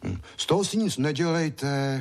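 put-on a small boy consoling a grown man; boy soothing. A narrator's reading. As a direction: comfort him like a small boy. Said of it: "chlácholil ho Ondroušek".

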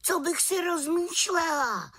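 high-pitched indignant cry; high little-witch outcry; little witch's exclamation. A narrator's reading. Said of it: "vykřikla malá čarodějnice".

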